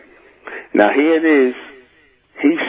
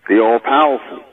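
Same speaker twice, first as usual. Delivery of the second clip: solemn invocation. Acted. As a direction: intone it like a sacred oath. Opening invocation.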